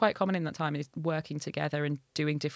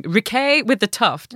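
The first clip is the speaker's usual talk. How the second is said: Hull vowels on Riquet with the Tuft; Hull accent; 4 semitones higher, 9 dB louder, slower than usual. Shown as a demonstration. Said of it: "just sounds a bit wank".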